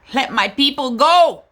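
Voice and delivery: rallying cry. Real, not acted. Activist mother calls for freedom, loud and firm. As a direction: proclaim it like a protest chant.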